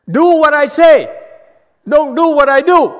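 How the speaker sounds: joking loud command. Acted. Master to disciples, a mock-stern shouted order. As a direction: bark the rule like a mock tyrant, then grin.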